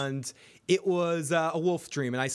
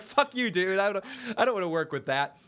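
raised, fast mock outrage; dismissive snap, higher and faster; mock indignant; 6 semitones higher than usual. Imagined retort, higher.

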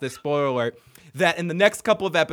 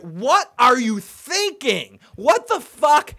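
slow, exasperated yell, louder and higher; Angry Video Game Nerd; 7 semitones higher, 6 dB louder, much slower than usual. Retold or imitated. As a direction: bellow it in mock disbelief. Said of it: "to quote the angry video game nerd".

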